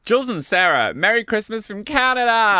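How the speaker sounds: playful attempt at a North American accent; Canadian greeting with an LA slant; Canadian accent via LA. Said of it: "my accent is saying it via L A".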